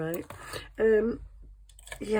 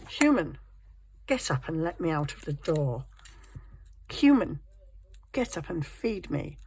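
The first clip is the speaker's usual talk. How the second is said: imperious cat. Acted. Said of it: "they're just like having slaves".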